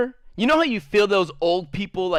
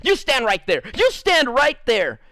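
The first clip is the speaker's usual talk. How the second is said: stern teacher; 5 semitones higher than usual. Retold or imitated. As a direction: order him to stay put. Teacher scolding student.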